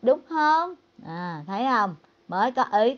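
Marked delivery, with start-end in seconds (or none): 0.0-0.7 wife setting him straight. Retold or imitated. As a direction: pull him back into line right away. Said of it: "chấn chỉnh ngay".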